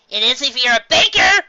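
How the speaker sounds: high, loud protest; indignant squeal. Acted. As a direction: insist it is scary. Pinkie protests.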